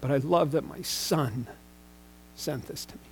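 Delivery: real emotion getting the better of him; choked up. Real, not acted. Pastor choked up reading his son's text aloud. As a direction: voice catching and fading to almost nothing. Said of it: "Sorry if I get choked up".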